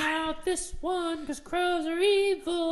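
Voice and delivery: excited rant. Acted. Excited rant over crow.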